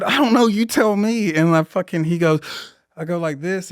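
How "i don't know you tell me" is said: sarcastic reply. Retold or imitated. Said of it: "I said".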